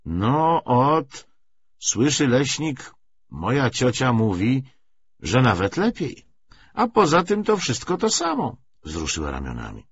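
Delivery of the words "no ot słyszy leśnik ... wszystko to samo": lightly voiced old forester.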